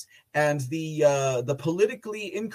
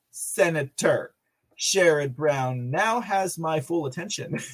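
normal talking voice

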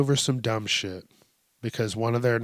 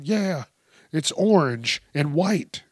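put-on old lady caller; 4 semitones higher, slower than usual. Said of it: "they called the cops and were like".

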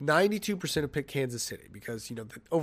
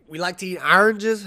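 lightly faked Boston accent, a bit raised; horrible Boston accent; 4 semitones higher, 6 dB louder than usual. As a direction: attempt a bad Boston accent. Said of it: "That's a horrible Boston accent".

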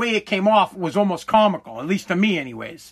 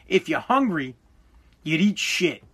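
deadpan dad; 2 semitones lower than usual. Retold or imitated. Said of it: "like deadpan, no emotion".

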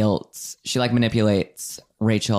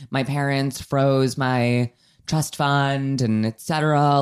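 a self-pitying whine, pitched a little higher and slower; mock victim; 3 semitones higher than usual. Anna insisting to her friends that she is the victim, mock whining. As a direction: play the wronged heiress, drawing out the self-pity.

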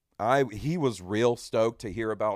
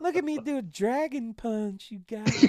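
mock clueless gamer; 12 semitones higher than usual. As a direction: stretch every word in a high pitch. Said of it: "and I'm just like".

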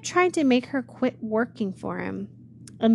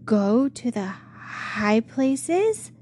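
very slow, amazed rising question; stunned disbelief, drawn out; exclaimed; 2 semitones higher, 3 dB louder, much slower than usual. Acted. Much Afraid amazed by the shepherd's offer, slow astonished question. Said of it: "she exclaimed".

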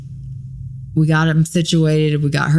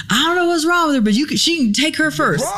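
higher put-on voice of a kind stranger; imitating a stranger, pitched up; man in waiting room; 12 semitones higher than usual. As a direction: voice the guy giving up his turn.

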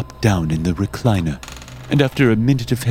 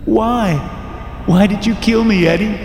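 very high ghostly wail; accusing ghost voice; 12 semitones higher, 3 dB louder than usual. A narrator's reading. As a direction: accuse your killer in a high, haunting cry. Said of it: "The voice echoed off the walls, reverberating like a curse".

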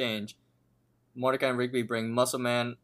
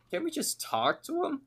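high pleading. Retold or imitated. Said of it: "Thomas starts talking".

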